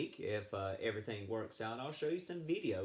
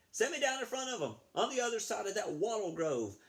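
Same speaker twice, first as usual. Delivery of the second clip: higher, louder, fast shouted command; shouted order; 11 semitones higher, 4 dB louder, faster than usual. Acted. Cheating racer shouting orders at the balloonist, a quick shout. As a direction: bark it at the balloonist. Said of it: "Damien shouted".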